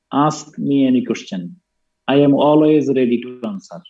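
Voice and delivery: slowly, word by word; slow dictation. Shown as a demonstration. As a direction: dictate it for students to write down. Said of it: "লিখো".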